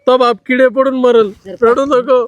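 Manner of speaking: loud, high-pitched distress; tearful outburst. Acted. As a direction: curse him loudly through rising tears. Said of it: "तुम्ही रडू नका".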